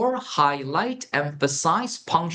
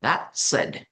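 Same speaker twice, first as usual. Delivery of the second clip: whispered phrase. Shown as a demonstration. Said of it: "이걸 말했으니란 뜻".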